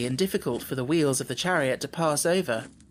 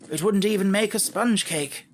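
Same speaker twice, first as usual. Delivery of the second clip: thoughtful; 6 semitones higher than usual. A narrator's reading. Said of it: "said the Scarecrow thoughtfully".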